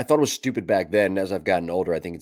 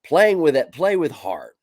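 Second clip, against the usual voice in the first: mock coach slogan; 9 semitones higher, 8 dB louder, slower than usual. Host ridiculing the coach's slogan, mocking shout. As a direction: shout the slogan high and loud. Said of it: "I'm gonna give everybody a lesson".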